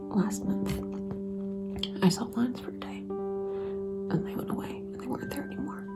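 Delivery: tearful, exhausted whisper; whispering while crying, drained; crying, worn out. Real, not acted. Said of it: "I don't know why I can't stop crying".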